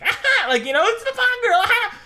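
high, loud laughing mimicry; mocking guffaw. Imitating the rude audience member, hammed-up laugh. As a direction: ham up a dumb leering laugh. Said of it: "and it's like".

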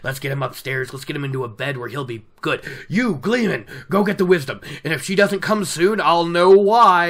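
bossing everyone upstairs like a worried host; gruff innkeeper Bran. Acted. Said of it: "and he's like".

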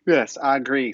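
yawning through the words; mid-yawn. Real, not acted. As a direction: talk while stifling a yawn. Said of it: "you caught me mid-yawn right there".

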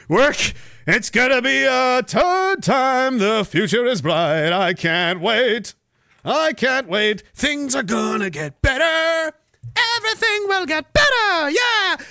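slow, rising sarcastic cheer; hammed-up hopeful voice; mock optimism.

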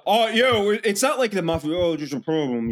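light mock tough-guy voice; tough local guys. Host voicing guys who come to your boss, lightly mock tough. Acting out tough guys' talk.

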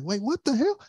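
a high, baffled Grinch; surprised. Retold or imitated. The Grinch hears the singing, shocked and high. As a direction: blurt it out in shock. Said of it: "he was like".

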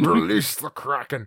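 loud echo of a dramatic command; hammed-up epic quote; playful theatrical cry; mock movie shout.

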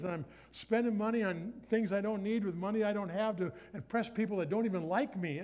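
mock panic about bills; fretting aloud over a stack of bills; panicked self. Young him panicking over bills, mock fretting.

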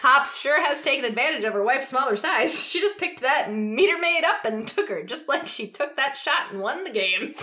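playful play-by-play commentary; sports announcer voice. Shown as a demonstration. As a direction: wrap up the call like a broadcaster. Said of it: "I'm gonna try and do my announcer voice".

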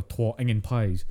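broad, slow Dundonian; Dundee accent. Shown as a demonstration. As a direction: stretch it out in thick Dundee Scots. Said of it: "you go to Dundee".

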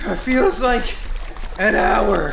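panting, breathless and loud; gasping from a long run; out of breath. Acted. Sketch opens mid-chase, breathless.

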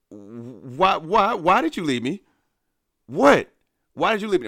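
hammed-up hurt questioning of his cousin; mock wounded plea. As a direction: whine it like a betrayed friend. Confronting cousin, feathers everywhere.

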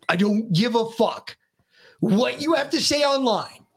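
retold angry ultimatum, pitch climbing at the end; losing it. Dad scolds son about phone at dinner, losing it. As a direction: re-enact a fed-up parent laying down the law. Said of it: "and I lost my ever-living shit".

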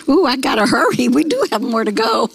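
real chuckle around the words; laughing. Real, not acted. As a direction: laugh at running short of time. Laughs at running out of time.

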